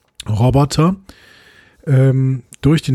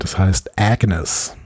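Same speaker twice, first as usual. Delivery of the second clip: slow, low villain reveal; slow theatrical villain menace; 5 semitones lower, much slower than usual. Acted. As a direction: drop it like a menacing secret.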